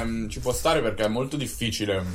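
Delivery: chewing while talking; mouth full. Real, not acted. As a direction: talk through a mouthful of taralli. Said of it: "sentire me che mangio".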